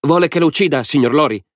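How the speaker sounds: put-on high, eager question from a boy; hopeful. A narrator's reading. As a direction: ask hopefully, pitched well up. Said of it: "chiese il ragazzo biondo speranzoso".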